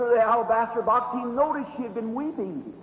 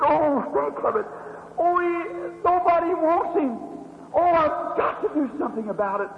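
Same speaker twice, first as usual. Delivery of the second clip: mild pleading; 6 semitones higher than usual. Retold or imitated. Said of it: "She said".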